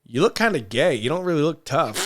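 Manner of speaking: quoting the producer while cracking up; laughter breaking into the quote; giggling through a retold question; laughing retell.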